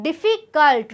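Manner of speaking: "difficult" with a slight break between diffi and cult; little pause mid-word. Shown as a demonstration. Teacher showing students the little pause in pronunciation, slight break in "difficult". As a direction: say "difficult" in two parts, diffi, then cult. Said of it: "There is a little pause".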